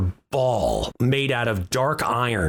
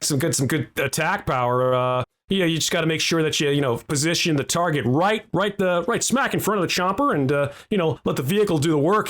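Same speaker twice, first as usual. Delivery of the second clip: tour guide and used car salesman; 3 semitones higher than usual. Acted. To the players, Wizen shows off the wagon like a salesman. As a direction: pitch the wagon like a slick car dealer. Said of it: "sounds a little bit like a tour guide".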